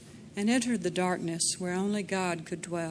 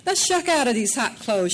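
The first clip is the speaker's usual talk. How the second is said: high, teasing woman's voice; playful invitation; 5 semitones higher, 6 dB louder than usual. A narrator's reading. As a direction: call him in playfully. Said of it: "said for him to come".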